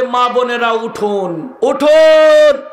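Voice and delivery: lightly mocking loudspeaker caller, stretching উঠুন; mosque loudspeaker wake-up call. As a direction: mimic a muezzin's Ramadan wake-up announcement over the mic. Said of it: "আবার বলে".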